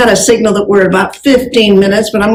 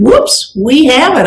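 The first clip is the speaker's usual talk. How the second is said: 1 happy surprise; 4 semitones higher, slower than usual. Retold or imitated. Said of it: "you will find".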